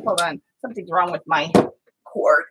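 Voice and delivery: usual speaking voice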